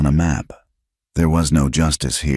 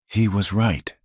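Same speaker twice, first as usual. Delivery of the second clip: choked; 4 semitones higher than usual. Acted. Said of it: "she choked out".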